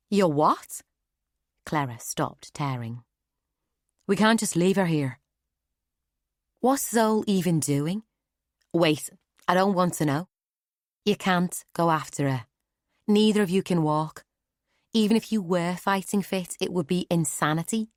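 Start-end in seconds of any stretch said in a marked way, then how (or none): 0.1-0.8 higher, louder incredulous question; can't believe what she just heard; shocked disbelief. Acted. Clara reacting to Nonna leaving, shocked loud disbelief. 4.1-17.9 raised, louder, urgent protest; alarmed Clara protest. Acted. Clara urging Nonna not to chase Zol, raised alarm. Clara arguing against going.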